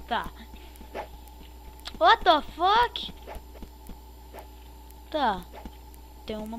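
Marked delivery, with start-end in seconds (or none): 2.0-3.1 baffled. Real, not acted. Confused at game.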